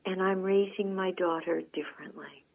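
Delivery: soft, gentle retold quote; gently said. Lovely woman confiding to a customer about her daughter, gently. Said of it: "she very gently said".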